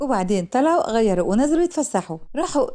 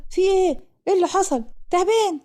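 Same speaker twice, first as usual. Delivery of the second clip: startled; 8 semitones higher than usual. A narrator's reading. Mohamed rushes into the girls' tent, startled. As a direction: burst in shocked and alarmed. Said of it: "ومحمد بخضة".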